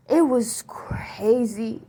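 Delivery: breathy awed whisper, under the breath; whispered in awe. Real, not acted. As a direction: hush it as if still shaken. Awed recalling of the dream.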